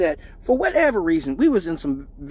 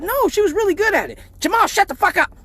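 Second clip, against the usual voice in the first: high mocking mom scolding; high hammed-up mom taunt; 13 semitones higher, 3 dB louder than usual. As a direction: tease like his mom catching them leaving. Mom voiced.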